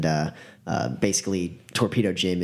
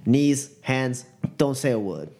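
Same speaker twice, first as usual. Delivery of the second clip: raised-pitch, curt gunman orders; gruff command; 5 semitones higher than usual. Acted. Gunman silencing his captive, commanding.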